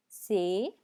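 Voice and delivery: से said as say; teacher demo; French letter C. Shown as a demonstration. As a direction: model से for C. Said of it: "सी को से".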